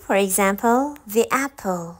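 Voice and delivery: very slow, each word set apart; slow listen-and-repeat demo; slow model words. Shown as a demonstration. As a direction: read the list slowly for learners. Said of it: "به من گوش بدین".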